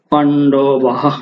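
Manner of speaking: পাণ্ডবাহা drawn out very slowly, ending in a voiced "ha"; Sanskrit pronunciation. Shown as a demonstration. Teacher breaking down the Sanskrit word, পাণ্ডবাহা very slow with clear হা. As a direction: stretch পাণ্ডবাহা syllable by syllable, sounding the final হা. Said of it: "তাহলে আ যুক্ত করে দিয়েছি".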